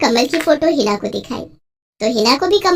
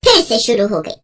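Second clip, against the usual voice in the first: a touch of exasperated anger, lower-voiced; angry mother; 5 semitones lower than usual. Mother complaining about her daughter, mildly angry. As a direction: play a mother fed up with her girl. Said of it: "क्यों इतना गुस्सा कर रही हो".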